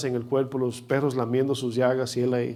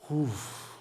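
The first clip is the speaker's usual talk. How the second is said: soft, breathed-out "uf" of relief; relieved sigh; 9 dB quieter than usual. Acted. Believers reaching heaven look back, quiet relieved sigh.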